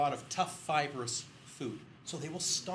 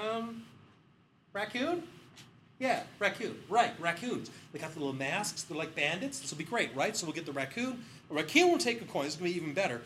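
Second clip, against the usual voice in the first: higher, eager sales pitch; mock excited pitch; 4 semitones higher, 5 dB louder than usual. Researchers pitch raccoons to the bank man, excitedly. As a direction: sell the raccoon idea, hammed-up. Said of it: "It's like".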